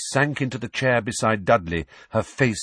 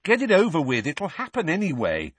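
pitched-up, pressing tone; urging; 8 semitones higher than usual. Acted. Nephew telling his aunt delay is useless, urgently. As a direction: push her to get on with it. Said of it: "Harry urged her".

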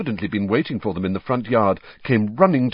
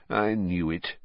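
heavily; 2 semitones lower, 5 dB quieter than usual. Acted. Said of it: "said Mister Weasley heavily".

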